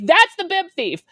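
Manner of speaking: high, loud call-out. Retold or imitated. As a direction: point and shout the accusation. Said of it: "So I'm like".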